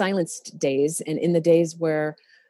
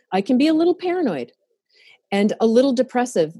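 high, fast, giggly admission; quick giggling confession; laughing self-deprecation; 5 semitones higher, 4 dB louder, faster than usual. Real, not acted. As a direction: laugh off your own quirks. Laughing at own flaws.

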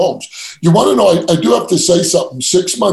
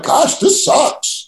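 dejected thought; 11 semitones higher, much slower than usual. Retold or imitated. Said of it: "I'm like".

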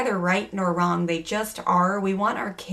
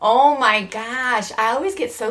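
laughing imitation; 5 semitones higher, 5 dB louder, slower than usual. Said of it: "mimics child's whine, laughing".

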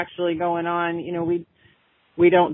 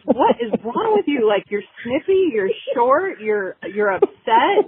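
higher, lightly mimicked puzzled husband; a light take on his fed-up questioning; exasperated husband; 4 semitones higher than usual. Husband asking his moody wife what's wrong, higher mock exasperation. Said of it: "And he goes".

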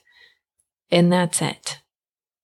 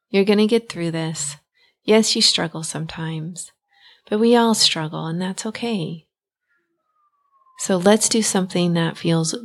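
kindest voice. Shown as a demonstration. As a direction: comfort a scared little one gently. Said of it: "bring out your kindest voice".

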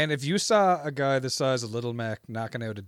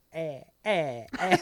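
Doc grunts; 4 semitones higher, slower than usual. Retold or imitated. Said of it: "Doc going".

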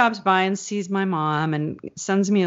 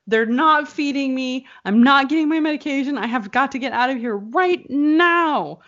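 higher, fast, complaining mother; mother listing grievances from the hospital, higher and pressing; panicked mom; 8 semitones higher than usual. Retold or imitated. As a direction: rattle off complaints high and urgent. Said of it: "She's like".

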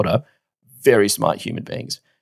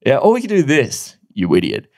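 mock dismissive colleague; 4 semitones higher, 3 dB louder than usual. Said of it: "someone else's response is like".

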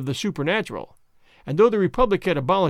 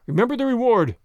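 higher and louder, pushing the men on; captain rallying his men, raised voice; urgent command; 6 semitones higher, 4 dB louder than usual. Acted. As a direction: spur the soldiers with the reward. Captain urging soldiers on.

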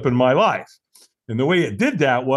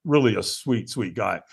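ordinary talk

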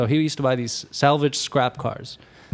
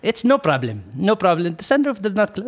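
put-on dismissive Arab-accented salesman; 6 semitones higher, faster than usual. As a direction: wave the fault away in an Arab accent. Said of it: "I'm gonna try to talk to his accent".

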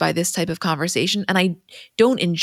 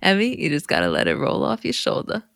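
lightly voiced Brooklyn dad; easygoing fatherly advice; 2 semitones higher, 4 dB quieter than usual. Quoting dad's birthday speech.

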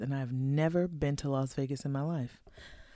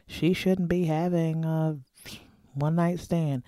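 judgy listener; 4 semitones higher than usual. Pretend. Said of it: "some people are listening to this thinking".

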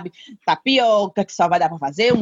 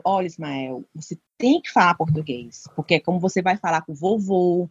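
emotional appeal; 4 semitones lower than usual. Retold or imitated. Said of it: "eu vou pro lado emocional".

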